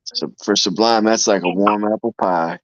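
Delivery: talking with a mouthful; words round a bite of food; mouth full. Real, not acted. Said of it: "Don't talk with your mouth full".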